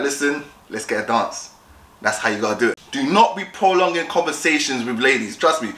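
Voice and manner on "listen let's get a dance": softer, low-key calm invitation. Shown as a demonstration. Guy casually asking a girl to dance, calm. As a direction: keep it cool and understated. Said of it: "Be calm and be like".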